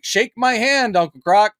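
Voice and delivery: hint of a chirpy show character; mock kids'-show host. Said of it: "And then it's like".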